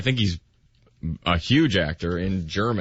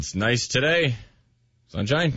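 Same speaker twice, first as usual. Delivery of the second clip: half-hearted, higher radio voice; 5 semitones higher than usual. Pretend. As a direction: lightly fake a radio presenter. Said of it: "Use your radio voice".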